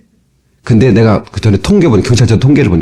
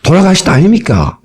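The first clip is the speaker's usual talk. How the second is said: higher-pitched mock Gyeongsang dialect; 4 semitones higher than usual. Shown as a demonstration. Preacher shows how a death is announced in Gyeongsang dialect. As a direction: demonstrate a Gyeongsang-accented phrasing. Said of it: "경상도 말은".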